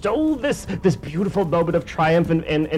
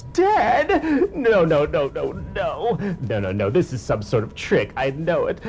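villain Giggler; 2 semitones higher than usual. Acted. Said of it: "tears at his hair and goes".

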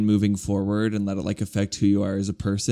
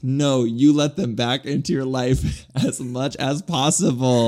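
mock dramatic; 3 semitones higher than usual. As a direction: play it as an over-the-top sarcastic lecture. Voicing Glee's message mockingly.

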